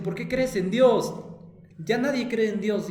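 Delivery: mock taunt from classmates; mocking friends. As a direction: jeer like kids teasing a believer. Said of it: "Me dicen".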